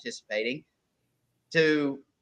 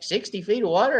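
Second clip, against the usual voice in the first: "Sixty feet of water?" raised higher with a rising questioning end; doubtful question; 6 semitones higher than usual. Retold or imitated. Newbie angler questioning the sixty-foot advice, mock disbelief. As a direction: echo it back as if it's crazy. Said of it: "He looked at me like I was stupid".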